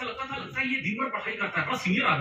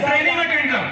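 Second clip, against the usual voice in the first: louder, higher curt order; stern dismissal; 4 semitones higher, 7 dB louder than usual. Retold or imitated. Upline brushing off the junior's request, curtly loud. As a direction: bark it like a boss shooing you off. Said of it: "तो मेरे upline ने बोला".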